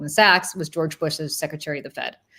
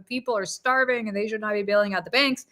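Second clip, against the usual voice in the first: Bernie impression; 3 semitones higher than usual. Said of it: "Everything you'd expect Bernie to say".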